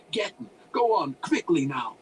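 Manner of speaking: loud, impatient dismissal; shooing. A narrator's reading. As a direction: shoo them off like chickens. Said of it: "waving his hands as a farmer would to shoot chickens".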